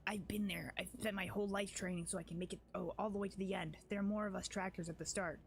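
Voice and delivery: lightly voiced fierce tribeswoman; character voice. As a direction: read it as a proud, wary warrior. Voicing Wenduag's dialogue.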